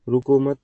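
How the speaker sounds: "रुको मत" run together as one unit; grouped before pause. Shown as a demonstration. Teacher explaining how meaning changed, words grouped before the pause. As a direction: say "रुको मत" in one go, then stop. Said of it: "कैसे?".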